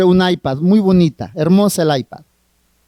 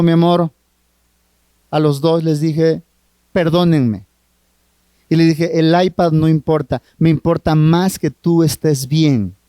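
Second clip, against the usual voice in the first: low, gentle father's apology; a father making peace with his little girl, tender and low; 4 semitones lower than usual. Retold or imitated.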